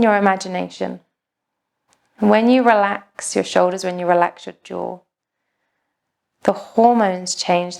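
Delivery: even, unhurried meditation voice with long pauses; calm, measured yoga-teacher delivery; guided meditation. Acted. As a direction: guide a class gently into stillness, pausing between phrases.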